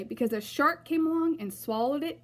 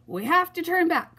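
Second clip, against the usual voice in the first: high, loud urgent cry; 8 semitones higher, 6 dB louder than usual. A narrator's reading. Another pirate crying out in the storm, high and loud. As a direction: call it out over the storm. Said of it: "cried another".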